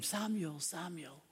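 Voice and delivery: a gentle call that fades to almost nothing; soft call. Acted. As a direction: call the name softly, as in the night. God calling a sleeping boy.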